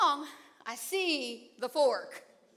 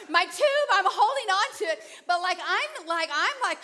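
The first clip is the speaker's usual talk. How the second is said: panicked; 4 semitones higher, 4 dB louder than usual. Retold or imitated. Swept away, panicking in water.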